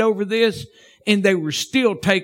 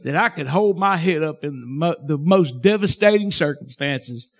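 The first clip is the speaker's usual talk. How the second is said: a hint of a whispered prayer; quiet prayer. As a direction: pray it to yourself, humbly. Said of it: "I'm thinking to myself".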